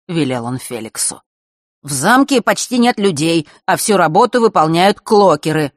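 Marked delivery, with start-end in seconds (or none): 1.8-5.7 respectful tone. Acted. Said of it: "нормальным, почтительным тоном".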